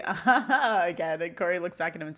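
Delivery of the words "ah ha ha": livelier put-on "ah ha ha"; repeated mock laugh. The speaker repeats the shared laugh, overdone mock chuckle. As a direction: overdo the fake chuckle, one too many. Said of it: "he does the".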